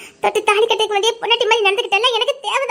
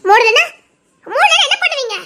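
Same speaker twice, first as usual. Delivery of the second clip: defiant challenge; 4 semitones higher than usual. Acted. Woman defies husband.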